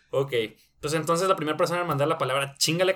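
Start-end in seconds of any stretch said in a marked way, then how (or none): 2.6-3.0 "Chíngale" punched louder and higher on CHÍN; stress on the Í. Real, not acted. Host announcing the contest word to listeners, stress on CHÍN in "Chíngale". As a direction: hit the first syllable of "Chíngale" hard. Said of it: "con acento en la I".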